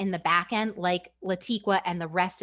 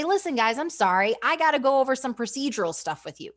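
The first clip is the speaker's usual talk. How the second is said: upbeat call-out; 4 semitones higher than usual. Shown as a demonstration.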